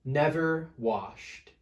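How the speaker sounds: lively read-aloud storytelling; story narration. A narrator's reading. Teacher reading a picture book to children, lively storytelling.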